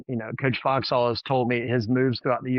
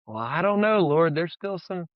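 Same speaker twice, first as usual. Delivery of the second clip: higher-pitched, hammed-up waffling; playful reluctant objection, pitched up; mock hesitation; 4 semitones higher than usual. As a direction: pretend to hedge with the Lord. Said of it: "what are you gonna say?".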